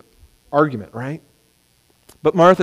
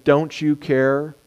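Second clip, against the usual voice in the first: slow question; 5 dB quieter, much slower than usual. Retold or imitated. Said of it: "Martha asks her question".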